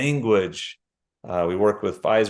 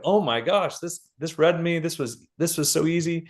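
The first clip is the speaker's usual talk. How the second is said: high gushing delight; excited people quoting; 6 semitones higher than usual. Retold or imitated. People who took the test, gushing with delight. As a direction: gush like a thrilled test-taker. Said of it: "a lot of people are like".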